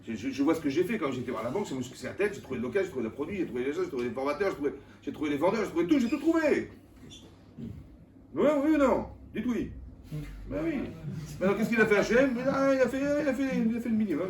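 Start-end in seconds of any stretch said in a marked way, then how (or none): 2.3-14.3 fast, then high and loud bragging; boastful rant. Retold or imitated. Preacher mimics a proud businessman, fast, then high and loud. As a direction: brag that you did everything yourself. Boasting self-made man.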